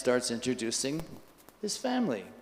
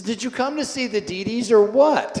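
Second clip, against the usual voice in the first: retold impatience, higher and louder; mildly frustrated; 7 semitones higher, 6 dB louder than usual. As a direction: act out a host losing patience a little. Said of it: "getting a little frustrated".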